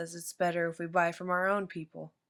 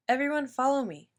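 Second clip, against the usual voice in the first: louder, higher call to a crowd; 6 semitones higher, 6 dB louder than usual. A narrator's reading. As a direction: gather everyone to follow. Lady calls to crowd.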